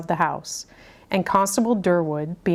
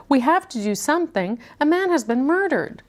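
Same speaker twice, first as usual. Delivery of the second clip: quavering voice; 8 semitones higher than usual. A narrator's reading. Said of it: "in a quavering voice".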